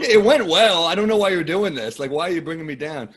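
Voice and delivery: mock-indignant complaint to a well-wisher; exasperated protest. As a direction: start high and loud, then ease off. Acts out protest at faint praise.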